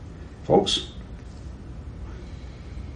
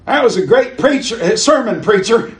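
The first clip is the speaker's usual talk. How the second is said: put-on high, loud kid's voice, eager and cheeky; little street urchin; 10 semitones higher, 5 dB louder than usual. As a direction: play a small street boy gushing at the preacher. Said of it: "this little urchin came up to him and he said".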